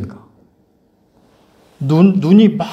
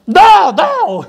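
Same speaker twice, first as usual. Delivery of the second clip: mock child's very high yelp of no; repeated refusal; 3 dB louder than usual. Older brother refusing over and over, forcefully.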